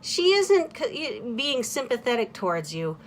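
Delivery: friends' explanation. Retold or imitated. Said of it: "they're like".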